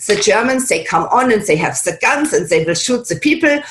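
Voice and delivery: movie-baddie German accent; harsh, clipped German accent in English. Shown as a demonstration. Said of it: "the German English accent".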